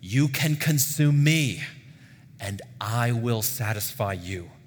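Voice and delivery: slow, loud opening that settles down; measured divine promise, emphatic at first; God's declaration. Acted. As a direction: proclaim it slowly as God's offer. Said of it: "God says to us".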